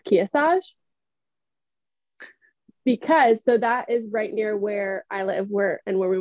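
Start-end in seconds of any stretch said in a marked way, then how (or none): 0.0-0.6 Kearsarge with the R's dropped, Boston style; Massachusetts accent. Retold or imitated. Imitating wife's Mount Kearsarge, R-less Massachusetts accent. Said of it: "She says".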